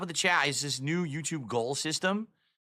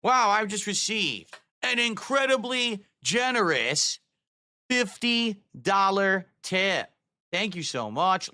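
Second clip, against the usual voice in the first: excited thanks; 5 semitones higher, much slower than usual. Acted. Thanks a donor on stream.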